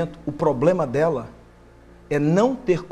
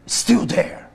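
rising, louder pleading cry; anguished protest; 6 semitones higher, 8 dB louder, much slower than usual. Acted. Preacher voicing the grieving mother protesting to Jesus, loud and anguished. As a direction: cry out against the pain.

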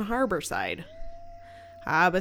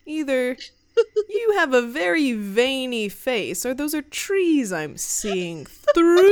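laughing disbelief; 5 semitones higher, 4 dB louder, slower than usual. Pretend.

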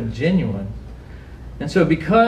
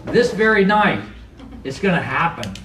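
casual Jesus. Retold or imitated. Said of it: "Jesus said".

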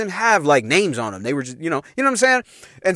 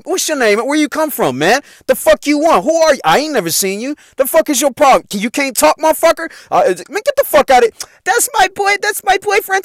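mock confrontation; 6 semitones higher than usual. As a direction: act like protective brothers scaring him off. Brothers confronting Tim at door.

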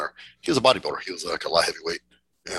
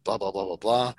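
higher, eager fanboy gush; quoting the happy contest winner, higher and eager; imitating excited guy; 5 semitones higher than usual. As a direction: mimic a giddy fan thrilled to train with the stars. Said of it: "He's just all excited, you know, happy".

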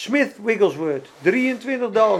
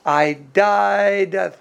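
slow, stretched-out preacher's voice; imitating Kathryn Kuhlman's slow, drawn-out delivery; long drawn-out voice; 3 semitones lower, much slower than usual. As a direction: draw every word out slowly, floating. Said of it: "Zo praten ze met zo'n lange stem".

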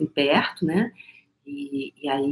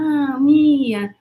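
tender recognition; 8 semitones higher, 4 dB louder than usual. Retold or imitated. To the little girl Mia, a higher tender echo of her name. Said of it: "Eu falei".

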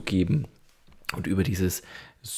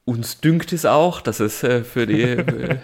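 snooty aristocratic german; 3 semitones higher than usual. Acted. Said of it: "im Pluralis Majestatis sprechen".

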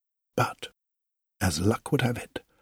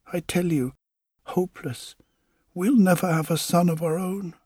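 higher, aching and pleading; tender but heartbroken; a wife on the edge of tears telling husband it is hopeless; tearful wife; 5 semitones higher than usual. Acted.

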